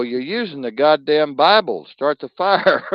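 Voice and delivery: loud, high mocking redneck shout; mock redneck yell. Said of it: "They go".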